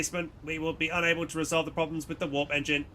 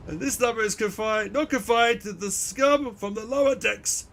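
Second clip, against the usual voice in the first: higher, slowed official drone; High Factorum voice; 4 semitones higher than usual. Acted. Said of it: "I'm trying so hard with these voices".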